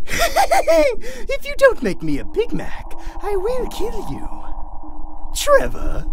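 slow, very high clown threat; eerie high-pitched killer clown; menacing clown. Acted. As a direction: threaten slowly in a squeaky clown voice.

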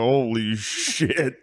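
slow, dreading mutter; slow dread realization. Retold or imitated. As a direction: drag out the hungover dread. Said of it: "you go".

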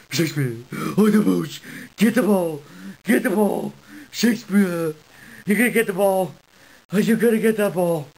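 a lightly silly put-on voice for the dog; goofy coaxing, only slightly changed. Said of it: "Maybe if I talk in a silly voice".

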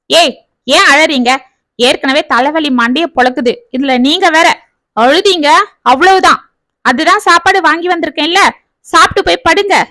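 angry outburst with a headache; snapping irritably. Acted. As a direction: snap at the crying kids. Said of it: "எரிந்து விழுந்தான்".

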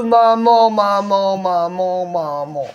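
high amazed maman fading down to a murmur; calling maman in disbelief, fading; stunned exclamation. Real, not acted. The founder recalling the queue, amazed then fading.

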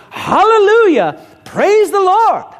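loud, high, slow shout of praise; joyful shout. Retold or imitated. Convert shouting praise heard down the block, loud and slow. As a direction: call it out so it carries down the street.

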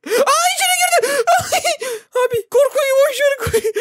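very high, loud shriek with laughter; shrieking panic tipping into laughs; panicked screaming. Real, not acted. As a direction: scream in fright while half laughing. Jump scare, creature got inside.

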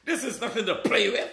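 owning the anger, pressing harder each time; angry. Real, not acted. Preacher answering his critics, admitting he is angry. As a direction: fire back at critics with mild real anger. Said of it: "You damn right I'm angry".

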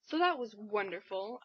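dry, mock-cheerful praise; sarcastic. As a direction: say it like you mean the opposite. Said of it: "I'm being sarcastic".

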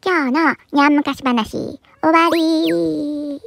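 slow, stretched-out closing line; storyteller's sign-off. Acted. Cat tale ending for listeners, slow storyteller sign-off. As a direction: draw out the last word to close the tale.

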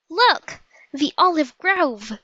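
high, urgent shout pointing the way. A narrator's reading. Annie to Jack, spotting the olive grove, a high shout. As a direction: call out to spot the grove. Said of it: "shouted Annie".

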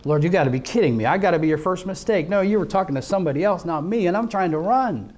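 quick, rising mock protest to the Lord; retold protest. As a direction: rattle off a disbelieving refusal, retold. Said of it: "you know, I'm like".

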